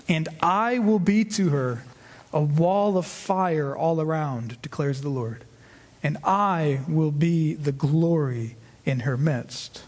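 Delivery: lightly solemn scripture reading. Acted. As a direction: read the verse with gentle weight. Reads scripture aloud.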